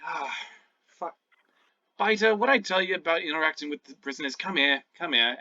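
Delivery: weary scolding goblin voice; sigh, then briskly scold the pet. Acted. Goblin jailer scolding his mimic, exasperated character voice. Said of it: "the goblin kinda sighs and he's like".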